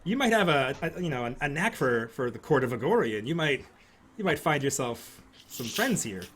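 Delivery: sly invitation; lightly voiced noblewoman.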